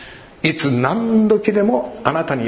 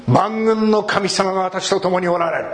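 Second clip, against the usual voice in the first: declared aloud; 6 semitones higher than usual. Shown as a demonstration. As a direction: announce it to the spirit world. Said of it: "声に出して 霊の世界に宣言することです".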